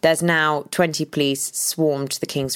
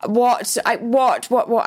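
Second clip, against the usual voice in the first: panicked stammer; 6 semitones higher than usual. Retold or imitated. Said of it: "then I started screaming".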